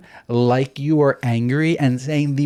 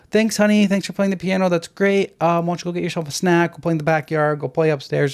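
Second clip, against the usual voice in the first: sweet calm parent voice; 4 semitones higher than usual. Retold or imitated. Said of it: "you stay calm".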